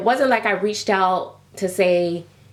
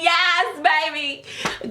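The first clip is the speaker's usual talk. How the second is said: sassy approval; 7 semitones higher, much slower than usual. Retold or imitated. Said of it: "I was like".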